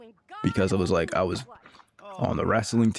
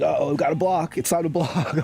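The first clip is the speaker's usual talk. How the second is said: mock alarm; 9 semitones higher than usual. Mock alarm at friend's rudeness.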